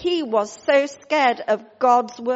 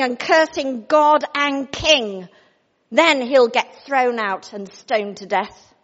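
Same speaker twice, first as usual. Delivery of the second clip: scheming queen; 2 semitones higher, 6 dB louder than usual. Acted. Jezebel dictating scheming letter.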